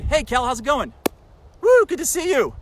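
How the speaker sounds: loud, bright hello to an imagined friend; mock cheery greeting. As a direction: hail a friend across the street, hammed up. Imagined greeting to a raw-bean eater.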